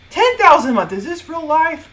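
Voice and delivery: loud, high excited shout; amazed outburst, voice way up; thrilled disbelief. Acted. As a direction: top the last figure, giddy and loud. Escalating disbelief at growing income.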